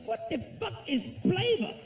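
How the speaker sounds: a hammed-up Spanish-accented echo; mimicking accent. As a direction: echo his word back in confusion. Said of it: "I said".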